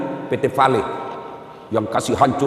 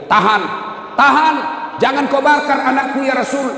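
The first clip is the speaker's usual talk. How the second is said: pleading scream; 11 semitones higher than usual. Acted. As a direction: cry out to save your son. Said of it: "ibunya berteriak".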